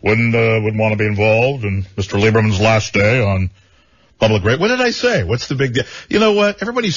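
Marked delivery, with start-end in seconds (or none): 0.0-4.6 Tom Brokaw impression. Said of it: "you're being like Tom Brokaw".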